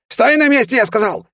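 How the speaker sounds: very high, loud panicked order; hysterical yell. A narrator's reading. Demon shrieks at the hero to stop, hysterical yell. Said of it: "истерично выкрикнул он".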